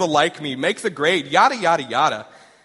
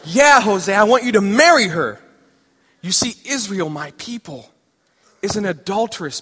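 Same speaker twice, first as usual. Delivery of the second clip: higher and much louder insistence; emphatic God; 3 semitones higher, 7 dB louder than usual. Acted. God insisting to stunned Hosea, much louder. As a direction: hammer the command home.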